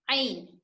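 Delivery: आइन said with a thick voice from the middle of the throat; thick throat ain. Shown as a demonstration. Teacher shows students आइन with a thick throat voice. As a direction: give आइन a heavy throaty sound. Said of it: "गाढ़ी आवाज निकालना है इस तरह से".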